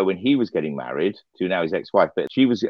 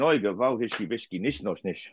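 exasperated oigavalt fading to a mutter; performing the phrase with exasperation on request; 6 dB quieter than usual. Shown as a demonstration. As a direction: sigh it out, fed up. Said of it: "more of an exasperation".

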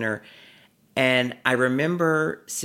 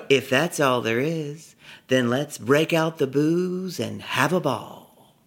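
put-on little girl voice; 3 semitones higher than usual. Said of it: "her little girl, pragmatic answer".

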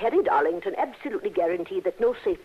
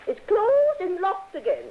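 higher, louder call through the door; calling back; 11 semitones higher, 3 dB louder than usual. Acted. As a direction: let it carry to the other room. Widow calls back through doors.

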